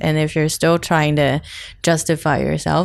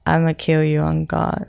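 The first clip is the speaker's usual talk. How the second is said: a calm, flat-toned threat; deadpan menace. Acted. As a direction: say it coolly, like you mean it. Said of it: "You gonna say it like that?".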